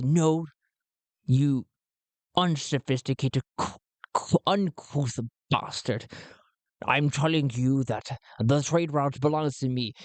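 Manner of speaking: indignant, lightly put-on cultured voice; Len Onya. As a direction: scold with a hint of Connery. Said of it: "Len Onya speaks back".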